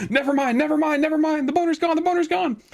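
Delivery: high, loud, through giggles; laughing it off. Real, not acted. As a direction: backpedal while still laughing. Laughing after joke, high.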